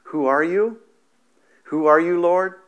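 loud, rising call to the light; startled shout upward; Paul crying out. Retold or imitated. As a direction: cry out the question in awe. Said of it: "Paul said he has two questions".

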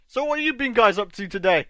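"what have you been guys up to" with the words jumbled; wrong word order. Real, not acted. Streamer greeting viewers with the words in the wrong order. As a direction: trip over the word order. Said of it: "I worded that completely wrong".

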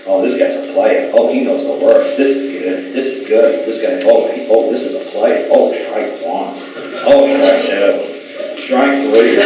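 retold judge's mounting relish; judge reading notice. Judge looking at the notice, acted-out savouring reaction. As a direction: play the judge reacting aloud, strikes drawn out. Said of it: "the judge, he's like".

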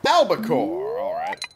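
very high, loud catch cry; high squeak. Real, not acted. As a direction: squeal the fish name.

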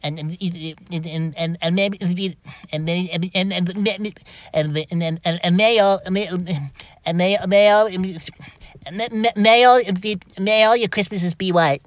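stutter, then blast the last line; stuttering building to a shout. Acted. Stuttering duet partner.

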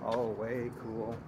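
usual speaking voice

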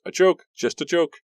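high, hurried take-back; hasty backpedal. Acted. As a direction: retract it quickly, laughing it off. Ricky hurriedly takes it back.

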